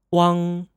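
"wang" as one syllable ending in ng; Mandarin final wang. Shown as a demonstration. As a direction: model "wang" clearly for learners. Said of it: "we will get".

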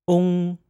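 "Ong" with oh as the letter O, into ng; Mandarin final ong. Shown as a demonstration. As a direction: model "Ong" clearly. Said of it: "One more time".

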